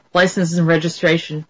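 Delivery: level, deadpan officer demand; American cop, no emotion at all; emotionless police officer. Acted. Imitating American police at a traffic stop, emotionless. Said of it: "it's sort of emotionless".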